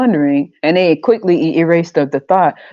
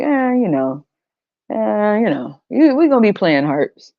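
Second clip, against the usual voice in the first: mock indifferent onlooker; 3 semitones higher than usual. Onlooker voiced at crucifixion.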